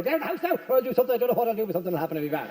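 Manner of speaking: a threat that starts firm and fizzles out; mock threat losing steam; weak trailing threat. Shown as a demonstration. Demonstrating a threat that tails off, half-hearted. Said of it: "You can't go, ... let it tail off".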